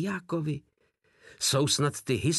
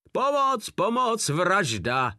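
desperate scream; 6 semitones higher, slower than usual. A narrator's reading. Terrified sergeant shrieking for help at his captor, desperate scream. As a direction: shriek for help in sheer terror. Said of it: "ječel zoufale Blac".

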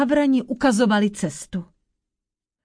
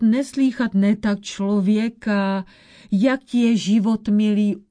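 put-on old witch. Old witch warns the prince.

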